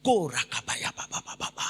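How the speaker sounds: playful imitation of speaking in tongues; mock speaking in tongues. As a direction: babble syllables like playful glossolalia. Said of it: "peut-être il a parlé en langue". (imitation du parler en langues)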